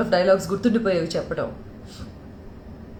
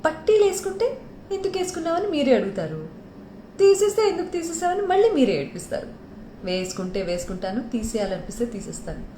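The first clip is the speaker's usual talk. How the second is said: heroine's retort; 5 semitones higher, faster than usual. Acted. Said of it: "డైలాగా".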